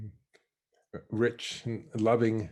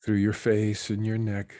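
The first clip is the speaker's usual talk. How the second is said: guided meditation. Real, not acted. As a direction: let each phrase settle downward into stillness. Leads a meditation.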